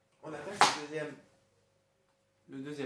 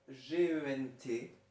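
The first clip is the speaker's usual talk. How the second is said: slow, letter by letter; spelling out; 2 semitones higher, 4 dB louder, much slower than usual. Shown as a demonstration. Teacher giving pupils the correct spelling, slow and separated. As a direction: spell it out slowly for writers.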